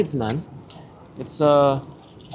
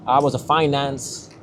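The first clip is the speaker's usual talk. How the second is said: put-on slow, half-hearted Texan accent; bad Texan accent. Imitating Americans heard on the street, in a poor Texan accent. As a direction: attempt a drawn-out Texan accent. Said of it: "do the Texan accent".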